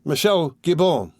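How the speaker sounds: high, slow call of a name; the stranger losing patience with Jupiter; shriek. A narrator's reading. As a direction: shout a name into his face. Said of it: "shrieked almost in his face".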